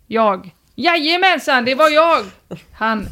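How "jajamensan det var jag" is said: high, hammed-up proud call; mock shout. Poster owns up to neighbour from window, mock shout. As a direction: own up to it in a half-shouted call.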